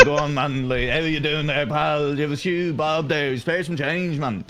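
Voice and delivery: light imitation of an inner city Dublin accent; a hint of working-class Dublin, casual and matey; lightly voiced inner city Dublin accent. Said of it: "they all talk like this".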